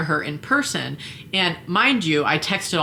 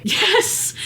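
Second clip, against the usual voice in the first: flat mock yes. Her own curt reply.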